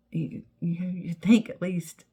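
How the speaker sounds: hushed aside to the camera; whispered aside. Real, not acted.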